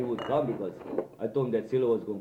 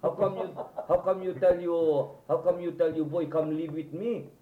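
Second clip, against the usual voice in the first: higher-pitched, halting mock protest; retold indignant challenge; 7 semitones higher than usual. Man challenging her over the boy moving in, retold protest. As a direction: act out an affronted objection.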